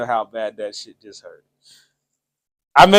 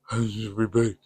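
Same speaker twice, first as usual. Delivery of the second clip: stuffy nose; 5 semitones lower, 9 dB quieter than usual. Shown as a demonstration. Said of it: "it'll be like I got a cold".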